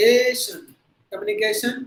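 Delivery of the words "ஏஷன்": ay-shun with a long flat A; teacher shows the common long-A ending; usual Tamil way. Shown as a demonstration. Tamil learners' usual pronunciation, long A. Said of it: "நம்ம யூசுவலா எப்படி நம்ம உச்சரிக்கிறோம்".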